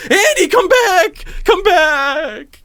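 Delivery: high, slow call; mock calling after. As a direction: call after him down the street. Friend chasing, calling out.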